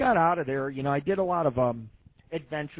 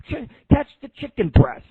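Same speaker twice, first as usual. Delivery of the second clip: higher and louder, like yelling across the kitchen; playful shout; 7 semitones higher, 11 dB louder than usual. Retold or imitated. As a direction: call it out to a coworker across the room. Retold KFC chicken-throwing game.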